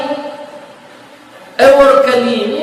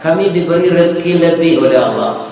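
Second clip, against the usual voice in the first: put-on soft, gentle child's answer; a hint of a kind little girl; lightly voiced little girl; 6 semitones lower, 5 dB quieter than usual. (suara lembut gadis kecil)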